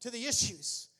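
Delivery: high, loud commanding rebuke of fear; shouted rebuke. Shown as a demonstration. Preacher shows the church how to rebuke fear, shouting. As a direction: drive the fear out of your life.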